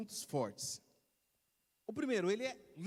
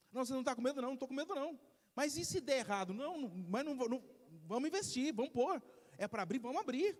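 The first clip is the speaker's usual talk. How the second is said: lightly acted, higher-pitched back-and-forth; fearless go-getter; 5 semitones higher than usual. A choleric founder brushing off doubts about opening a business, lightly higher and eager. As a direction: play a choleric entrepreneur who brushes off every doubt. Acts out a choleric entrepreneur's dialogue.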